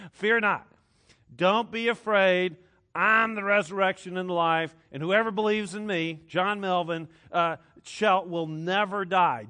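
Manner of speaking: booming mock-divine announcement; mock grand proclamation. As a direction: proclaim it boldly, as if claiming to be divine. Pretends to make Jesus's claim.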